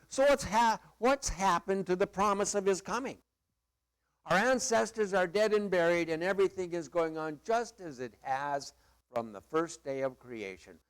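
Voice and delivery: mocking scoffer. Preacher voicing a scoffer for the congregation, mocking. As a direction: scoff at it like a doubter would. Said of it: "that mocker".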